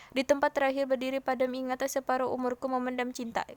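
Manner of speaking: unclear, hurried recitation without pauses; rushed poem reading. Shown as a demonstration. Teacher mimicking a student who rushes a poem, rushed reading. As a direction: race through the poem on one level. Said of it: "Ada orang yang baca puisi cepet gitu".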